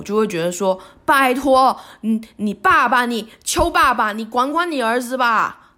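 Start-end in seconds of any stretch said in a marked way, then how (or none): 1.0-5.7 angry exasperation. Retold or imitated. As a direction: snap it out in exasperation. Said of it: "强烈的怒火". (不耐烦地发火)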